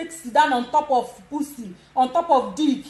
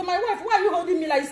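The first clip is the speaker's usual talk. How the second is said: quick, higher mock-surprised question; surprised husband; 5 semitones higher, faster than usual. Husband asking his wife why she holds him like that, mock surprise. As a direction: play the husband caught off guard. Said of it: "if your husband said go even surprise".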